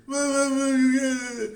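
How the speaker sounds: put-on high, loud whiny child call; child crying to mama. Kid in a sham battle calling mama, high whine. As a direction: wail for mama like a beaten kid. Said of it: "You can't say".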